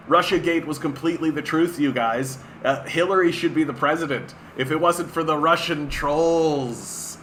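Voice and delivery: sarcastic fake earnestness; mock sincerity. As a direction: pretend to believe it, sarcastically. Mocking belief in Russiagate.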